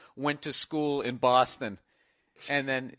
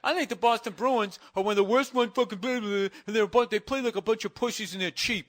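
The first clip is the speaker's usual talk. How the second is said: higher-pitched mock fan rant; mocking sports caller; 6 semitones higher, 4 dB louder, faster than usual. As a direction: gripe like a fed-up fake fan.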